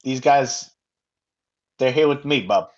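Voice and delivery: put-on tough-guy New York accent. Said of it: "He says in a, in a New York accent".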